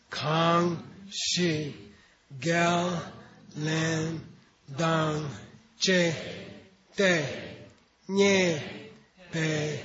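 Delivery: one syllable at a time, each clearly spaced; slow measured syllable recitation; syllable drill. Shown as a demonstration. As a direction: call out each syllable like a chart for students. Reciting Tibetan syllable chart.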